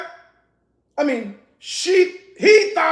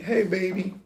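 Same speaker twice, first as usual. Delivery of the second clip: acting sweet; 8 semitones lower, 8 dB quieter than usual. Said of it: "She acted all sweet".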